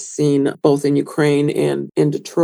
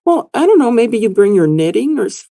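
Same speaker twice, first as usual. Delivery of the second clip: high-pitched, a bit louder imitation of the customer; mock customer voice; 5 semitones higher, 3 dB louder than usual. Retelling the museum visitor's silly guess, high mock voice. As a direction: play the clueless visitor, pitched way up. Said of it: "She goes".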